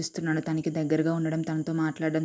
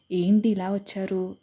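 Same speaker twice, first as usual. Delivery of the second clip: slow, mocking question, drawn out; sarcastic; 3 semitones higher, slower than usual. Nisha to Vikram who came angrily, sarcastic. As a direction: needle him with a slow sarcastic ask. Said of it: "అడుగుతుంది వెటకారంగా".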